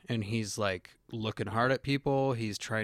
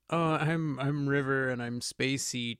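spacey River; 4 semitones higher than usual. Retold or imitated. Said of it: "you see River go from".

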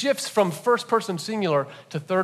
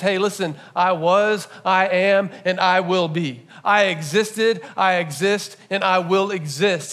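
voicing God; 3 semitones higher, 4 dB louder than usual. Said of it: "what God is trying to say is".

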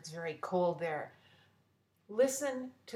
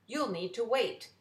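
loud, high call of the fair worker; gruff fair worker; 4 semitones higher, 4 dB louder than usual. Acted. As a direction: hail her like a busy ticket man. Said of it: "He says".

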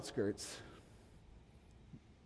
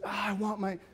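mock desperate shout; 4 semitones higher than usual. Mock striving for approval.

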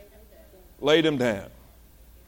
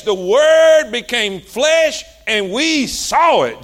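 1 proclaiming; slower than usual. Acted. Preacher proclaims scripture.

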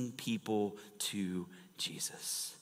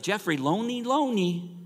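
imitating mom; 9 semitones higher, 5 dB louder than usual. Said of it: "her southern way".

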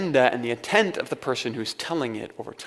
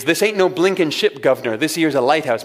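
lightly hammed-up Cockney lighthouse keeper; a self-mocking try at a Cockney accent; playful, admittedly poor Cockney accent; mock limey accent; 3 dB louder than usual. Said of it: "My limey accent needs a lot of work".

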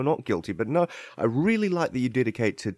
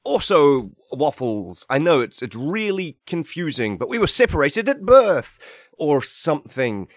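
evil twin; 4 dB louder than usual. Acted. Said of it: "your evil twin".

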